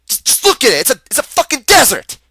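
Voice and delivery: real exasperation, pitch jumping up; exasperated outburst. Real, not acted. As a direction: burst out in exasperated disbelief. Ranting about the desert he served in.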